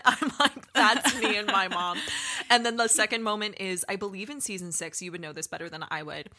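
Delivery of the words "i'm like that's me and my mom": laughing through the words; laughing while recognising herself and her mom. Real, not acted. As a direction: giggle it out, amused.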